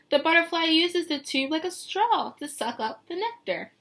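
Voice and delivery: lilting picture-book read; reading to children. Acted. Teacher reading the book text to her class, lilting. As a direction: paint the scene for the kids.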